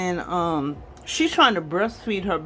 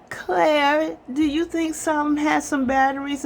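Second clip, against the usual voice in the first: much higher, quick and sugary; the nanny sweetly asks the mother for batteries, high and sugary; fake sweet nanny voice; 8 semitones higher than usual. Peyton fakes sweetness to Claire.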